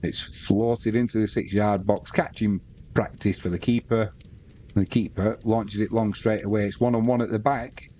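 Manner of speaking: steady football commentary call; live play-by-play. Acted. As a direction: call the match as it unfolds.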